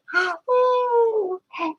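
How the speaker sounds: high crying gasp; hammed-up wounded gasp; mock shocked gasp. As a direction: gasp like you're hurt. Addict gasps when confronted.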